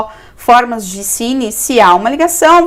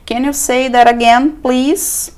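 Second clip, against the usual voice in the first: slow model phrase; slower than usual. Shown as a demonstration. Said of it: "Você pode dizer".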